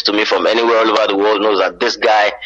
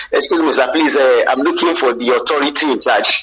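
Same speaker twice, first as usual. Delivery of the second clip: higher-pitched Nigerian English, politely asking; Nigerian accent; 4 semitones higher than usual. Acted. Nigerian asking a stranger for the authority in charge, Nigerian accent. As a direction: ask it in a marked Nigerian accent. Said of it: "So when you go somewhere here".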